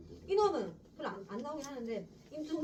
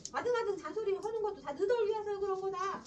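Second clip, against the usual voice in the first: put-on higher, louder old man's self-justifying scold; 너덜 위해서 in a raised grandfather voice; grandfather's nagging; 8 semitones higher, 3 dB louder than usual. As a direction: nag as if it's all for their sake. Grandfather line, then repeated plainly.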